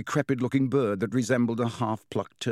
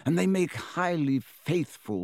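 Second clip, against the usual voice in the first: higher, lilting voice of a fond headmaster; Dumbledore; 6 semitones higher than usual. A narrator's reading. Headmaster praises his phoenix to Harry, fondly lilting. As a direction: praise the bird with rising, admiring emphasis.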